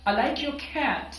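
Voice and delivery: slow model sentence, accent landing on cat; stress on cat. Shown as a demonstration. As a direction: lean on the last word, cat, with a rise and fall. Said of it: "یہ یہاں پہ accent آئے گا".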